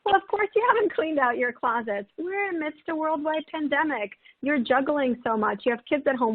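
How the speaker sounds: kind reassurance. Retold or imitated. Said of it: "we would say something really kind".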